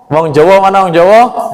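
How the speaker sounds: playful Javanese accent, Jawa said as jowo; lightly mock Javanese call, Jawa pronounced jowo; teacher calling for Javanese students in a Javanese accent. Shown as a demonstration. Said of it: "wong Jawa".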